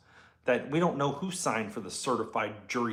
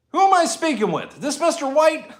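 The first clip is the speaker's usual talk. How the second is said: deputy questioning; 8 dB louder than usual. Retold or imitated. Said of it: "And she goes".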